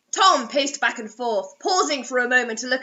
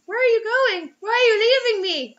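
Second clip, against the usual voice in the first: higher, faster hammed-up plea; mock pleading; 9 semitones higher, 5 dB louder than usual. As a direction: overdo the heartbreak. Pleading character line.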